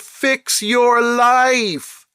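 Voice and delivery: whispered, slow and pointed; hiss-free stage whisper for emphasis; emphatic whisper. Real, not acted. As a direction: drag each word out in a whisper. Exasperated advice to the girl.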